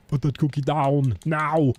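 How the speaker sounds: action hero shout. Acted. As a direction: bark the order like a movie hero. Schwarzenegger movie quote.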